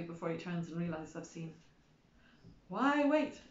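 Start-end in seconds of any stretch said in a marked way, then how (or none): 2.7-3.4 loud, higher ad shout; shouting leaflet. A narrator's reading. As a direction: bark it like a flyer headline. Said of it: "it shouts".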